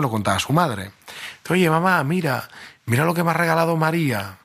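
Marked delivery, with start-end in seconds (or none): 1.5-4.4 high, eager schoolboy showing off a present; lightly voiced excited kid, pitched up; a boy bursting to tell his mom. Boy tells mom about gift.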